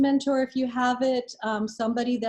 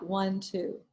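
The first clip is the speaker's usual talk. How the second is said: counting the out-breath; 2 semitones lower, 6 dB quieter than usual. Shown as a demonstration. Teacher counting students through a box-breathing out-breath, softer falling count. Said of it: "then you hold it ... then you breathe out".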